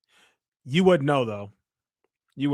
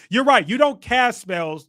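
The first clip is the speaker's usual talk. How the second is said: sarcastic; 5 semitones higher, 5 dB louder than usual. Real, not acted. Sarcastic fake agreement.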